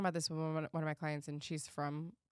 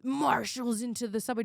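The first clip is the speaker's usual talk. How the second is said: mock official; 3 semitones higher, 3 dB louder than usual. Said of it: "They were like".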